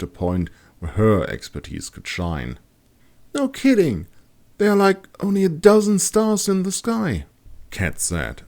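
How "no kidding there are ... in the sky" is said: put-on high, curious young woman's voice; wondering aloud at the empty sky; Kat's voice. A narrator's reading. Kat gazing upward, puzzled and high-voiced.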